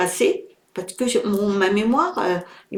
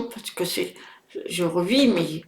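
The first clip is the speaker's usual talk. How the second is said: émue; 5 dB quieter than usual. Real, not acted. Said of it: "je suis un peu dans l'émotion".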